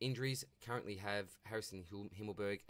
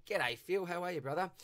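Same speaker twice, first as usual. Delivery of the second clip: hearty loud welcome, stretched out; excited greeting; 8 semitones higher, 5 dB louder than usual. Real, not acted. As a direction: boom out a big welcome to Phil. Cheerfully greeting a listener named Phil.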